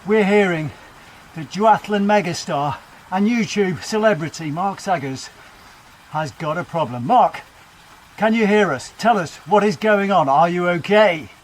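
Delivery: urgent breaking news read; lightly voiced TV newsreader; news anchor. Self as news presenter.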